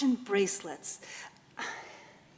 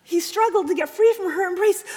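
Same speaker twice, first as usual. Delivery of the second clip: tense, emotional narration; 8 semitones higher, 8 dB louder, faster than usual. A narrator's reading.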